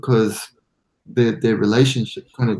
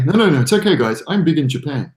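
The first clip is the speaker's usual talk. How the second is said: mock brag; 2 semitones higher, 3 dB louder than usual. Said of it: "you can't say".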